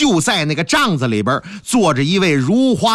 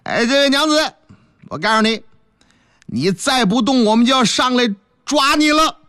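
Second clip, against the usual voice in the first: loud to boost courage; 5 semitones higher than usual. Acted. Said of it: "他为什么这么大声？他给自己壮胆儿".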